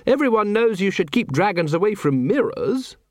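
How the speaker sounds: high-pitched lady's character voice; lady's voice, well above the narrator's; Lady Sybil. A narrator's reading. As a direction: pitch it right up as a knowing lady.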